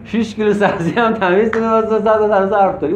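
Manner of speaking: lightly imitated gossip pouring out troubles; a hint of a kitchen gossip rambling on; mock heart-to-heart chatter. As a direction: parody a chatty venting session. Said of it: "اون درد دله".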